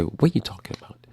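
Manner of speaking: hushed, breathy skeptic; voiced objector, whispered; whispered doubter. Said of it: "somebody could say".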